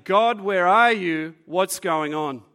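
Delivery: loud, slow plea to God; crying out to God. Retold or imitated. Preacher voicing suffering Job calling out to God, slow loud plea. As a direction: voice Job's desperate cry, slowly. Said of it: "you start to cry out".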